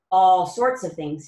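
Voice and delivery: slow, calm comforting tone; reassuring. Acted. Tum Tum soothing anxious Nutmeg, reassuring. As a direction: settle her worries gently. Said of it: "he said reassuringly".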